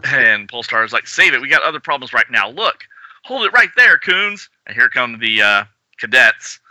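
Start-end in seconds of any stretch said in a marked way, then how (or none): 1.1-4.5 commanding hero. Acted. Polestar commands.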